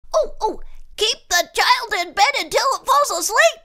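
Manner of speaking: high eager squeak; squeaky voice. A narrator's reading. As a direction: squeak it out, bouncing. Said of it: "bounced and squeaked".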